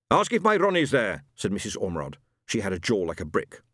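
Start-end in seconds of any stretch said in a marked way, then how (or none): 0.1-1.2 put-on higher, louder, insistent old widow; a hint of a pushy neighbour; eager widow. Mrs Ormerod asks.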